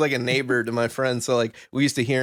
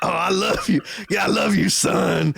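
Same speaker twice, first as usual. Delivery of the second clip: doting on the dog; 4 semitones higher than usual. Retold or imitated. Man telling his dog he loves it, mock doting voice. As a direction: gush over the dog like a proud dad.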